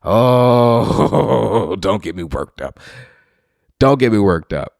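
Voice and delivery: chuckling, hold yourself back; comic playing at barely holding himself back; laughing self-warning. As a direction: laugh while cooling down. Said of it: "self-calming joke".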